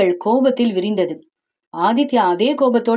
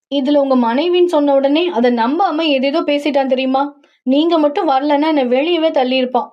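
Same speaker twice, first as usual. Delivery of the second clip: heroine's voice; 4 semitones higher than usual. Acted. Heroine tells her story.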